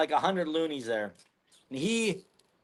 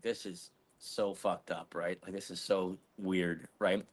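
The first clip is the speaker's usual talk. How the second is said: muttered quietly; 9 semitones lower, 12 dB quieter than usual. Retold or imitated. Dead silent truck, muttering.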